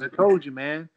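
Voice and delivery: loud, high I-told-you-so; gloating coach. Retold or imitated. Coach to his fighter, crowing loud and high. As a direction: crow it at him.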